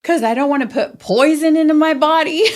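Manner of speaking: high, put-on earnest reply; mock earnest guy. Imitating the comedian's sober guy, high put-on voice. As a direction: deliver it like a self-righteous abstainer. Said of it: "he's like".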